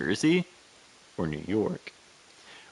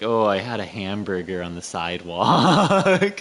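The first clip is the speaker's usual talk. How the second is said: exaggerated American accent, last word stretched; mock a default American as foreigners hear it; 3 dB louder than usual. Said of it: "they'd be like".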